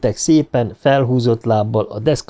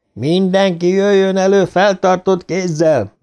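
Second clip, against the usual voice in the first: higher, restrained police order; commanding adult voice; 7 semitones higher than usual. A narrator's reading. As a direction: call it out like a cop, held back. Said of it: "visszafogott, parancsoló, felnőttes hangján". (visszafogott, parancsoló felnőttes hang)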